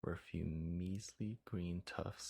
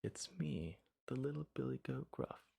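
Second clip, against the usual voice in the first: little goat, higher and timid; high-pitched, timid; 6 semitones higher than usual. Acted. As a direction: answer the troll like a scared little goat. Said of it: "in a high-pitched, timid voice".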